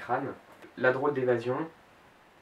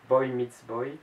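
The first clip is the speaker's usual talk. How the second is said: French-accented English; 5 dB louder, much slower than usual. Shown as a demonstration. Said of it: "mon accent anglais est pas parfait".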